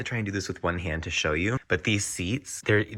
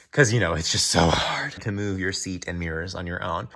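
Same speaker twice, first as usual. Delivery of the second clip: sarcastic whisper. Real, not acted. Sarcastic aside about seats.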